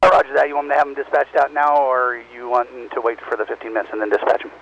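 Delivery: loud, crackly voice over a handheld radio; crackly construction walkie talkie. Real, not acted. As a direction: talk through a two-way radio. Tower replies over radio.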